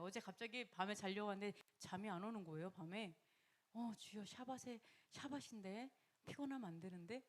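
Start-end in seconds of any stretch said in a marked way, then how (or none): 3.7-7.2 worried murmur. Retold or imitated. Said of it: "막 이러는데".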